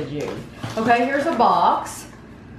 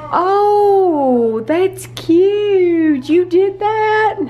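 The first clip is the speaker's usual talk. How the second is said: delighted praise; 9 semitones higher, 4 dB louder, much slower than usual. Real, not acted. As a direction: gush over the little one's drawing. Praising toddler's drawing.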